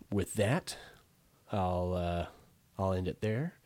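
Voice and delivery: stuffy nasal voice, blocked nose. Real, not acted. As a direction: speak through a stuffed-up nose. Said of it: "enduring my nasally voice".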